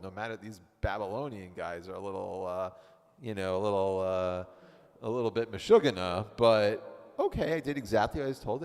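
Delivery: lightly played obedient wife. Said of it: "Let's be the wife".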